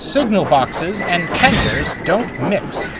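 slow, high call. A narrator's reading. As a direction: call it across the yard. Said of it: "called Fergus".

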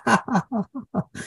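high soft mimicked chuckle; imitated teacher's laugh. Teacher laughing at his angry student, mimicked high chuckle. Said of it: "And the teacher started laughing".

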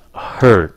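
hurt with a short r-coloured vowel; model pronunciation. Shown as a demonstration. Teacher contrasts hurt with heart, model pronunciation. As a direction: say hurt clearly, releasing the t. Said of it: "phát âm cái chữ hurt".

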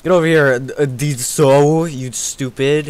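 loud jeering taunt at an opponent; mock taunt. Taunting the enemy player, a loud mock challenge. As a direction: call him over to fight, jeering.

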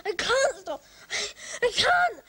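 hysterical crying. Acted.

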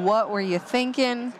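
slow, drawn-out imitation of online hecklers; mild mock yell. Commentator imagining Twitch chat yelling at a failed gamble, mild mock yell. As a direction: imitate an outraged chat without really raising your voice. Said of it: "Twitch chat yelling at me".

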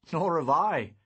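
put-on high young boy voice. A narrator's reading. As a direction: voice him as a small boy. Boy Lou voiced in narration.

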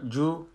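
"جو" as "joo" with rounded lips; rounded-lip damma. Shown as a demonstration. Teacher shows damma on another letter, "جو" with rounded lips.

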